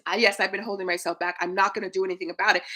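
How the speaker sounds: fast, lightly mock half-hearted; half-hearted yes. Coach mimics a viewer's empty admission, lightly half-hearted. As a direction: shrug off "yes, I've been holding myself back". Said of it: "Not just".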